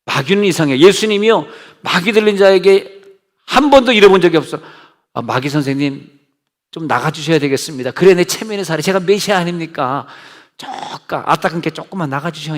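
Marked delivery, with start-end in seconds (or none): 5.1-12.6 softly, mock-courteous request to a demon; a timid, overly polite plea, half-joking. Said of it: "예수님이 그렇게 점잖으신 분이 왜 이렇게 호통을". (마귀에게 공손하게 비는 흉내)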